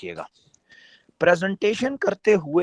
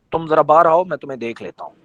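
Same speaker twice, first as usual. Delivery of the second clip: mock threat; 2 semitones lower than usual. Shown as a demonstration. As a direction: say it like a veiled threat. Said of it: "Khilji صاحب نے دھمکی دی ہے".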